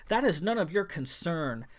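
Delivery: spat. Acted. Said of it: "he spat again".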